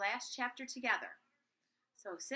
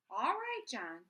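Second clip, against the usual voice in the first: mother character; slower than usual. Acted. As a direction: lift the voice up for the mom. Mother voices Missus Midas.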